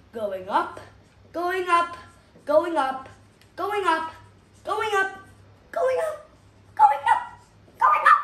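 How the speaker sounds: "going up" repeated, climbing from normal to very high and loud. Shown as a demonstration. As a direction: let the voice climb with every "going up" until a near squeal. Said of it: "tall means growing".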